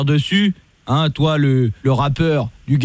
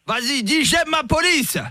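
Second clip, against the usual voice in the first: higher, slow, soft dictating; mock dictation; 10 semitones higher, 3 dB quieter, slower than usual. Fake cop making the rapper recite, mock coaxing. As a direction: coax him like a child. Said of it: "commissaire Latour".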